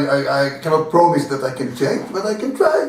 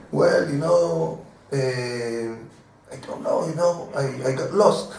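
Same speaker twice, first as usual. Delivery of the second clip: softer, slow, sheepish mumbling; meek apology; 2 semitones lower, 6 dB quieter than usual. Retold or imitated. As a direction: shrink back and sound harmless. Meek apology to angry neighbor.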